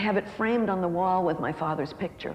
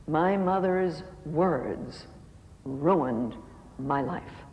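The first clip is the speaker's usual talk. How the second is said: retold sobbing words; 2 semitones lower, much slower than usual. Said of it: "My mother-in-law started to sob".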